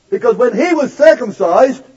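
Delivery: normal talking voice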